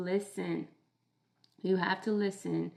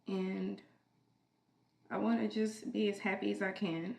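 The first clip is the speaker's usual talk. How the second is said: cracking tearful heartbreak. Real, not acted. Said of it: "I'm sorry for crying on camera".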